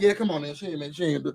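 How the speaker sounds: nonchalant. Retold or imitated. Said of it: "Dre was so nonchalant".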